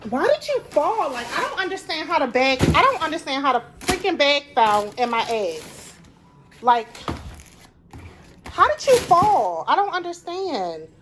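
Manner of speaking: real irritation aimed at the grocery bag; annoyed rant. Real, not acted. Vlogger scolding the bag that fell in her eggs, exasperated and high. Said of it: "Oh, so annoying".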